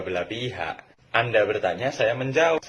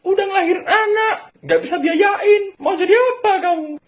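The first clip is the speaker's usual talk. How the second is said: much higher, louder mock shout at parents; child yelling back; 8 dB louder than usual. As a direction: yell it back at bankrupt parents, overdone. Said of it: "terus kita bilang gini".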